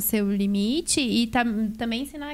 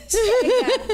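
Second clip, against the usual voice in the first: a sharp, high, louder "Chega"; firm mock shout; 11 semitones higher, 5 dB louder than usual. Mother telling her stressed daughter to stop, a laughing sharp shout. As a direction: snap "Chega" out to stop the child, half laughing. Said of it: "Eu viro pra ela e falo assim".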